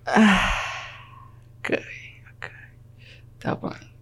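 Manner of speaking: sighed, fading to a near-whisper; retold stunned resignation, with long pauses; deflated acceptance. Passenger told they turn back to Lisboa, faint resigned murmur. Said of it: "E eu só fiquei tipo".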